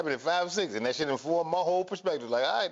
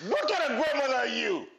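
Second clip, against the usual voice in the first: usual speaking voice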